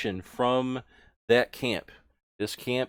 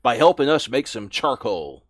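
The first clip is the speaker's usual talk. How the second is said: orc boss; 2 semitones higher, 6 dB louder than usual. Acted. Orc orders recruit.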